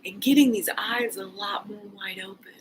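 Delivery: whisper. Real, not acted. Whispering while doing eye exercise.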